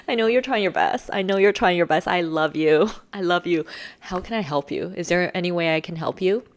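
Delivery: gentle, reassuring support; soft. Acted. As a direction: ease off and offer loving help. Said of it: "And I go soft".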